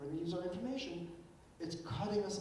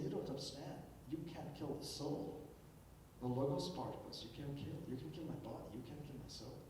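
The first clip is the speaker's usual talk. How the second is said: softer, calm retelling of Socrates; quietly soothing, unbothered by death; 2 semitones lower, 5 dB quieter than usual. Retold or imitated. Socrates consoling his weeping friends, calm and softer. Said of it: "And Socrates is chill".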